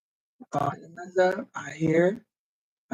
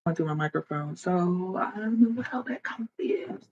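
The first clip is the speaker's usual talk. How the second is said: whispered aside; 6 dB quieter than usual. Real, not acted. Streamer muttering to herself while checking her microphone. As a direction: murmur it, puzzled.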